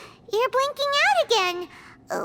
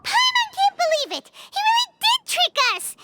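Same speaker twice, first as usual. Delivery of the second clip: mad outburst; 8 semitones higher than usual. Acted. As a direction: fume at being tricked. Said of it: "Paimon's so mad".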